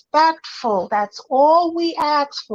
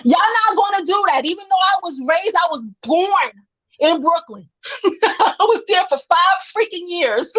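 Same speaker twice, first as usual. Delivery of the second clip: laughing through it; 4 semitones higher than usual. Real, not acted. Laughing while defending Brooklyn.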